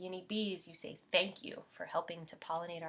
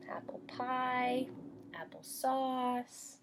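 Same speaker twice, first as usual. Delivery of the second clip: whisper; 5 semitones higher, much slower than usual. Acted. Whispered list of apple treats.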